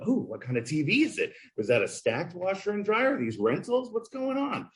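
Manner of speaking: high, curious questions climbing up; eager burglar. Retold or imitated. Reading the story as a robber, high eager questions. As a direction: snoop around the house like a thief.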